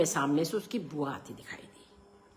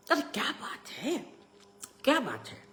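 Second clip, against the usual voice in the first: high questioning voice, unlike the narrator's; concerned aunt; 8 semitones higher than usual. A narrator's reading. Aunt questioning the father's scolding, concerned. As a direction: ask in a raised, protesting aunt voice.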